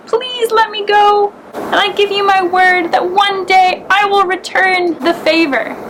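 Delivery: small mouse pleading with the lion for its life, high; squeaking mouse. Acted. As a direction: promise sincerely in a tiny voice. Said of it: "squeaked again".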